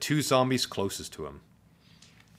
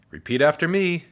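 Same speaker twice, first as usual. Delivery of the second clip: high, loud classroom instruction; sweet teacher; 9 semitones higher, 7 dB louder than usual. A narrator's reading. Teacher leads counting drill, sweet and high. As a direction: lead the class, voice lifted and projected.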